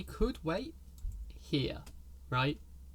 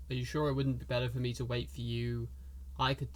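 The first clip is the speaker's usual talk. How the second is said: low, soft, hushed offer; whispering NPC; 3 semitones lower, 6 dB quieter than usual. Acted. Pirate offers to wait for the party, whispering. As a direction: speak low and quietly, under your breath. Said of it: "he whispers".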